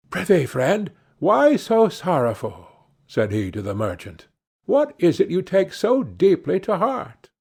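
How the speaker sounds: a sly little dwarf prying. Acted. Dwarf asks the sad merchant, lightly voiced.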